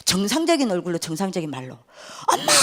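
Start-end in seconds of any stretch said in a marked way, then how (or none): 2.3-2.5 mock yell of a daughter; retold yell. Possessed daughter suddenly calls to her mother, retold yell. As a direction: cry out to mother, imitating. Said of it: "고함을 지르는 겁니다".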